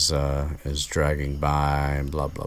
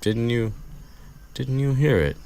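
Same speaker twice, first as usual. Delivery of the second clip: much higher, louder panicky Harry; frantic Harry; 9 semitones higher, 4 dB louder than usual. Retold or imitated. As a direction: play Harry insisting, rattled. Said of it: "he's like".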